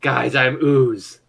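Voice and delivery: ooze character. Acted. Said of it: "And he's like".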